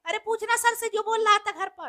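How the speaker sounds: hushed aside to a classmate; furtive murmuring. Acted. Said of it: "क्या खुसुर फुसुर कर रहे हो". (खुसुर-फुसुर, दबी आवाज़ में)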